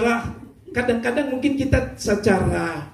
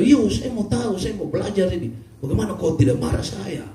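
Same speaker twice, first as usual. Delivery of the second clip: Papuan husband voice; 4 semitones higher than usual. Acted. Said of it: "Pace bilang".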